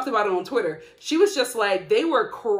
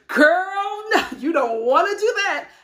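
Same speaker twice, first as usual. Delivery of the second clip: higher, louder, half laughing; friend's loud warning; 8 semitones higher, 6 dB louder than usual. Retold or imitated. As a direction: warn her off, laughing. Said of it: "She's like".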